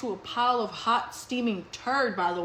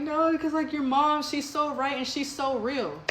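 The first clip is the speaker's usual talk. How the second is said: mock crying; 4 semitones higher than usual. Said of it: "My homegirl started crying".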